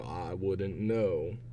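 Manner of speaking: ordinary delivery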